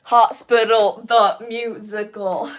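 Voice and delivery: announcer shout. Pretend. Announcing imagined musical title.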